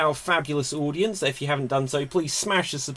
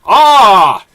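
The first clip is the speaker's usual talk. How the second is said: loud, higher, menacing alien overlord voice; alien villain; 8 semitones higher, 13 dB louder, slower than usual. Acted. Host playing the Simpsons alien villain, loud menacing boom. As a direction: sneer down at puny humans.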